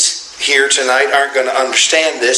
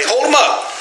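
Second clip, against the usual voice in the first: laughing; 10 semitones higher than usual. Real, not acted. Laughs mid-instruction to congregation.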